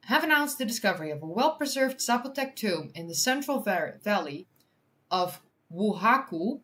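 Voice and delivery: clear, lifted headline reading; article read-aloud. Real, not acted.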